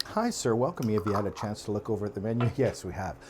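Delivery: lightly voiced polite waiter, fast on the menu question; a hint of a restaurant waiter. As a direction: play a chipper server, hint only. Acted waiter greeting diners.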